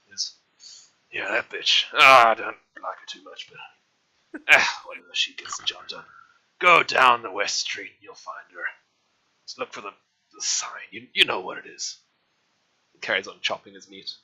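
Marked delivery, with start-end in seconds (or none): 1.1-12.0 butcher voice. Acted. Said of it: "I've been doing the same voice".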